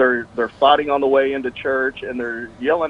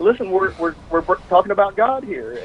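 mild mock yell; 7 semitones higher than usual. Parent reminding kids of the God talk, mild mock yell. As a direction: playfully imitate an exasperated parent. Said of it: "they yell at the kids".

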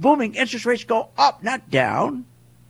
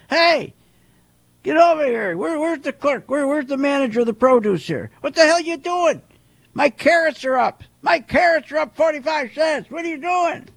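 raised, higher voice barking at the clerk; angry shopper; 4 semitones higher than usual. Acted. Shopper yelling at the produce clerk, angry and raised. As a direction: play the fed-up customer demanding answers.

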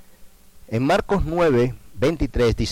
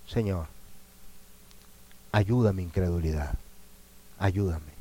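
1 humble plea; 4 semitones lower, 6 dB quieter than usual. Acted.

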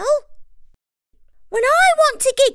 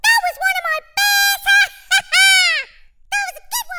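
laughing; 7 semitones higher, much faster than usual. Real, not acted. Listener laughing.

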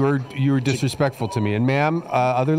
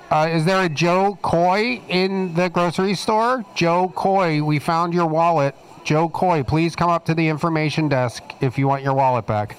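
loudspeaker store announcement, higher pitch; through a megaphone; 5 semitones higher than usual. Acted. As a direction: page the shopper over the intercom.

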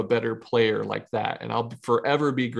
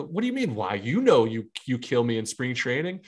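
retold incredulous comeback, half-joking; mock exasperation. Pitcher to the hitter who owns him, mock exasperated.

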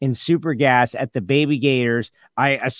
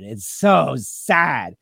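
mournful; 2 semitones lower, much slower than usual. Shown as a demonstration.

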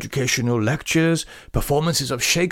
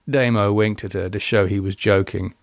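ordinary delivery, nothing marked

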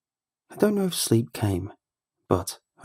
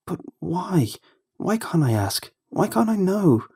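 insistent questioning; 9 semitones higher than usual. Acted. Child insists on asking mother.

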